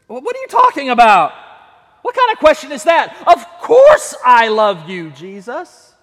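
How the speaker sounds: loud, fast, indignant protest; mock outraged. Preacher playing a hurt believer, loud and indignant. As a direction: protest loudly, hurt that he even asked.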